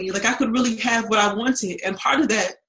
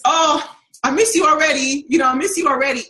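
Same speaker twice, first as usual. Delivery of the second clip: sweetly higher, loving "I miss you"; sweet affection; 4 semitones higher, 4 dB louder than usual. Retold or imitated. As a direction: coo it to your man. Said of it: "what I would say is".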